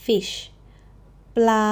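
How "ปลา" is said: ปลา level and steady, no rise and no fall; flat mid tone. Shown as a demonstration. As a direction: hold ปลา perfectly even. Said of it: "nice and flat, a mid tone".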